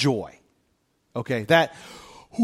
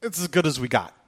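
resigned shrug; 4 semitones lower, 4 dB quieter than usual. Retold or imitated. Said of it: "you're like".

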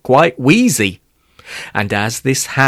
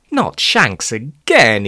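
slow, drawn-out mild wail; lightly acted dismayed groan; slower than usual. Mother faces shanks yet again, mildly wailing. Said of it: "his mother wailed".

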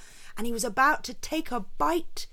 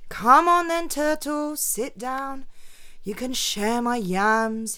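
mock grudging invitation, higher and louder; grumbled; 4 semitones higher, 5 dB louder than usual. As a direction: grumble the welcome reluctantly. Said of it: "he grumbled".

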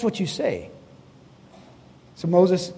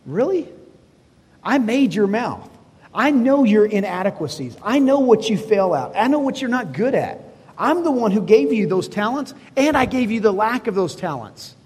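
amused; 3 semitones higher than usual. Acted. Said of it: "in humor".

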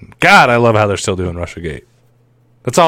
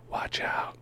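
mock whisper; 20 dB quieter than usual. Spooky warning whispered.

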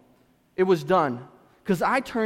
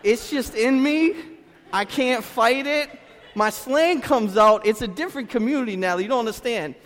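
laughing, playful protest; 3 semitones higher, 4 dB louder than usual. Retold or imitated. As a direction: laugh it off to the wife, unhurried. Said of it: "I said".

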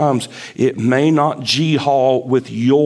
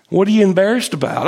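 quick questioner; 4 semitones higher, much faster than usual. Retold or imitated. Voicing questioner to Jonah.

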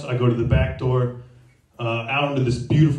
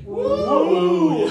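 woo cheer. Pretend. Comic cheers for the crowd.

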